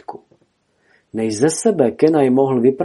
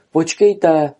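higher, urgent call; 6 semitones higher, 4 dB louder than usual. A narrator's reading. Kenai runs after the geese, calling out. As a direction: call after them, voice lifted. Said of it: "volal Kenai".

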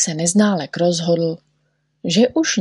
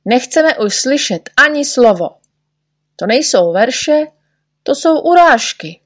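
loud, higher, rising to a yell; angry outcry; 6 semitones higher, 4 dB louder than usual. A narrator's reading. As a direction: refuse to hear another word. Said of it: "křičeli všichni".

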